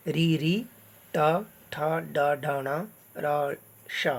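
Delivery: "ट, ठ, ड, ढ, ण" with the tongue curled to the roof; retroflex sounds. Shown as a demonstration. Teacher demonstrating the letters of the roof of the mouth, retroflex sounds. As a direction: recite "री, ट, ठ, ड" singly as retroflex letters. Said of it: "मूर्धा".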